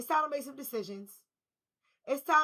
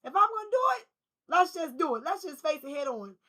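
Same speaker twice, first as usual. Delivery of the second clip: fired-up retold resolve; 3 semitones higher, 6 dB louder than usual. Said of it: "You was like, Look".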